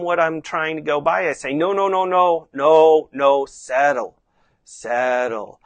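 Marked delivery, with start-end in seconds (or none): 1.5-5.6 firm, drawn-out calming no; settling tone. Shown as a demonstration. Rider calming a horse that spins away, settling. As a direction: settle him, easing down on the last word. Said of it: "just my tone of voice to settle the horse".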